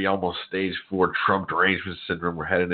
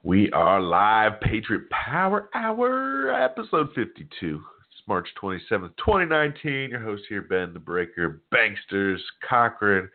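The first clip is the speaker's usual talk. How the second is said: stuffy nose from a head cold; blocked nose, nasal tone. Real, not acted. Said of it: "Please excuse my nasally voice".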